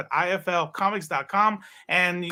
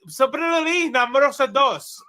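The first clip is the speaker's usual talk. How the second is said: automated phone voice; 8 semitones higher, 5 dB louder than usual. Retold or imitated. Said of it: "It said".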